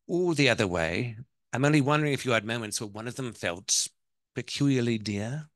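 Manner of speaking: put-on English-accented wife explaining herself. Wife explains her question to mother-in-law, English accent. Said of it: "I'm gonna do the ... the accent".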